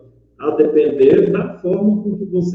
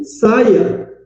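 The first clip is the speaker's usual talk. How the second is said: firm, higher-pitched mock order; angry command; 4 semitones higher than usual. Shown as a demonstration. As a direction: order someone out, mildly cross. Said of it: "ela vai dizer que eu estou bravo". (ordem brava, em tom de demonstração)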